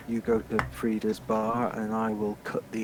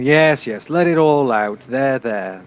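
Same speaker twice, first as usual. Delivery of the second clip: mock comforting; 2 semitones higher, 8 dB louder, slower than usual. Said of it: "one step removed from saying".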